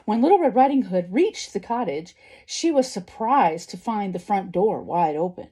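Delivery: expressive storybook narration; story reading to children. A narrator's reading. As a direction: read it out like a picture book. Reads a story aloud.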